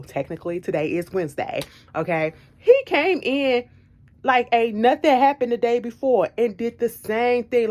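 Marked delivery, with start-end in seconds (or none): 2.6-7.7 exasperated. Retold or imitated. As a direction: stretch out the outrage. Exasperated retelling.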